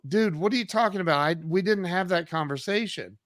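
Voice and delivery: high, quick protest of disbelief; incredulous denial. Retold or imitated. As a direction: deny it, mildly exasperated. Acting out his denial in bar.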